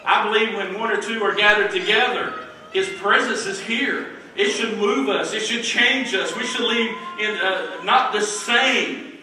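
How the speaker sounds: emphatic preaching, drawing out the last words; hollering preaching. Real, not acted. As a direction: holler it to the congregation. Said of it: "I feel like I'm hollering again".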